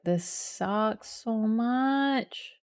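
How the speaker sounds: very slow, stretched frustrated groan; dragged-out whine. Real, not acted. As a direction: drag every word out in misery. Stream keeps dropping, frustrated.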